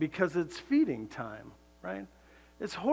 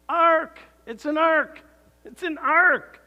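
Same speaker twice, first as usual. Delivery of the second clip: higher and louder, ringing out the word; emphatic reveal; 9 semitones higher, 8 dB louder, slower than usual. Real, not acted. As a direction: proclaim the answer like a revelation.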